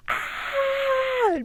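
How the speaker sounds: high, half-hearted yelp; a toned-down scream of a yell; mock scream. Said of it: "But, like, a lot louder".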